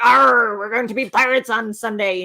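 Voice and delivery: lightly voiced pirate with a loud arr; pirate talk. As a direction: open on a pirate growl, lightly played. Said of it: "to talk like a pirate".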